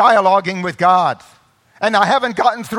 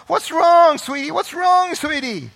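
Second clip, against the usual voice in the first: soothing parent; 8 semitones higher than usual. Retold or imitated. Parent comforting hurt child.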